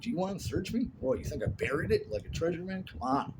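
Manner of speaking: put-on boy protesting to his father, high and indignant; indignant kid. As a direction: protest your innocence to dad. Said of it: "I'm like".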